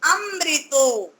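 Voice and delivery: अमृतो said very slowly, syllable by syllable. Shown as a demonstration. Teacher sounding out the word at the board. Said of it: "इसलिए हम यहाँ पर".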